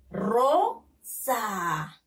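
Rosa split as RO, pause, long falling SA; teacher's two-beat sounding-out of Rosa; syllable by syllable. Shown as a demonstration. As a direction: sound out "Rosa" with a clear gap. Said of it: "Lean, niños".

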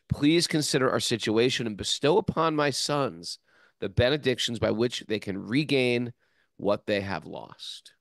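measured reading of a plea, building then easing; formal read-aloud with growing emphasis; scripture reading. A narrator's reading. Reads scripture prayer aloud.

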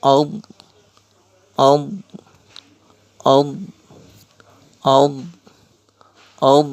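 "ad" with a firm, voiced dad; loud "ad" repeated singly, with pauses; drilled dad "ad". Shown as a demonstration. Teacher shows alif zabar dad jazm, drilling "ad". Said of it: "উচ্চারণ".

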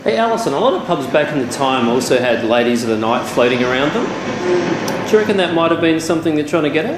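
loud questions to the spirit; calling out to an unseen presence; talking to a ghost. Real, not acted.

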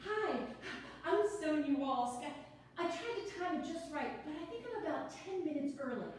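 quick, bubbly, a little flustered; nervous newcomer rattling on; nervous chatty woman. Acted. Sonia arrives nervous, chatty.

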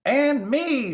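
very high, loud bird blare; blaring jay. Acted. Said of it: "the jay blared".

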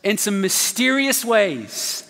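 slow, emphatic preacher cadence; rising sermon build; preaching. Acted. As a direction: drive each clause home from the pulpit.

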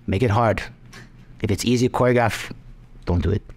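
lightly voiced, halting bad impersonation; a hint of a badly imitated martial-arts mentor; Jackie Chan. Mentor telling a choreographer to make it hard, bad impersonation. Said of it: "super bad Jackie Chan impersonation".

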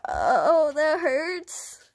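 loud, drawn-out moan of pain; pained cry. Acted. Hurt person complains aloud, loud pained cry.

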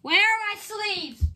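high, drawn-out frantic wail; freaking out. Real, not acted. Card opener hunting for sleeves, frantic wail. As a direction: wail it slowly in a fluster. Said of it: "I'm freaking out".

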